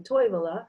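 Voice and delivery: "Toivola" stressed on TOI; first-syllable stress. Shown as a demonstration. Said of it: "Finnish always stresses every first syllable".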